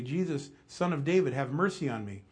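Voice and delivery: half-hearted call for mercy; crying out. Acted. Blind beggar to Jesus passing by, mild crying out. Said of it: "began to cry out".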